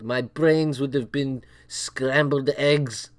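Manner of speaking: put-on slow, heavy Russian accent quote. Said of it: "I can't do a Russian accent".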